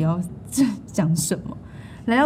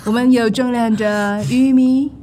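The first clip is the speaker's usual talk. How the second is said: put-on American accent. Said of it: "我们美国没有在吃土".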